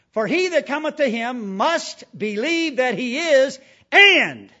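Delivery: full-force pulpit preaching; fiery preaching. Acted. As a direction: hammer each line at the congregation.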